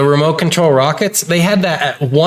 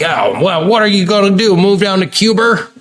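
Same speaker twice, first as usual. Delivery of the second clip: put-on higher-pitched grandma with New York accent, "Cuba" as "Cuber"; grandma's New York accent; 6 semitones higher than usual. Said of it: "my grandma used to go like".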